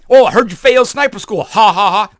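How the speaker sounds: loud, laughing jeer about failing; snide mocking laugh at a soldier; mocking taunt. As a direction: rub it in with a fake laugh. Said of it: "That's how it comes across".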